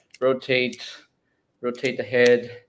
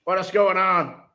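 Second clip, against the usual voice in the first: put-on Southern accent; 4 semitones higher than usual. Confused robot character looking for other self, Southern accent. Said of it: "I'm using Southern accent".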